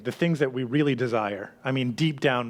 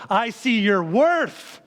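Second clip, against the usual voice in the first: owner's voice; 6 semitones higher, 3 dB louder, much slower than usual. Acted. Owner voiced in sermon parable.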